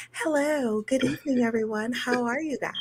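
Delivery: sweet professional greeting; customer service voice. Pretend. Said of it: "I need to put on my customer service voice".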